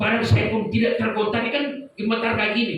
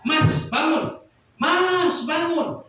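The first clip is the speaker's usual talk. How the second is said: imitated calling out; 7 semitones higher, much slower than usual. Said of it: "Mas itu langsung ngomong begini".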